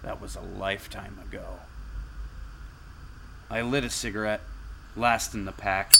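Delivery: tired hardboiled narrator, understated; noir detective. A narrator's reading. First-person noir story narration.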